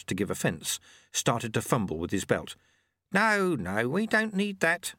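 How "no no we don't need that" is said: put-on a high, gentle old man's voice, unhurried; kindly. A narrator's reading. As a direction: Lute Say stops the man undoing his belt, high and kindly. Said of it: "said Lute Say kindly".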